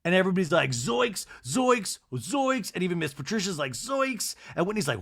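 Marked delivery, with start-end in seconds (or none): 0.7-2.7 mock shock. Everybody's shocked reaction, acted out. 3.7-4.4 mock shock. Miss Patricia's shocked reaction, acted out.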